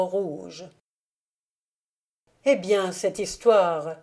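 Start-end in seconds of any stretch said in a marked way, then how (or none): 2.5-4.0 louder eager group question; asked all together. Acted. Listeners urging count Elim for his tale, eager and louder. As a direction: press him for the story, louder. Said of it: "demandâmes-nous tous d'une voix".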